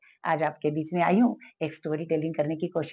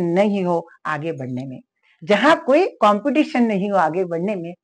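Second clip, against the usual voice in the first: lovingly. Retold or imitated. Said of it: "वो उसको प्यार से कहती है".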